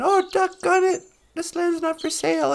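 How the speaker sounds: lightly voiced grudging concession; thwarted bad guys. Bad guys giving in to the hero, grudging. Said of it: "they all went".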